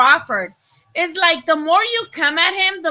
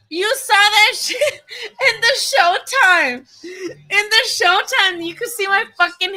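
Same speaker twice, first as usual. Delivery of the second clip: laughing through the words, higher; tickled about her hair on Showtime; 4 semitones higher than usual. Real, not acted. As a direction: giggle it out. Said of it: "laughing while talking".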